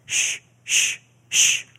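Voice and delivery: unvoiced shushing, soft and urgent; hushing whisper. Disciples hushing the blind beggar, whispered shush. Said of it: "the disciples say".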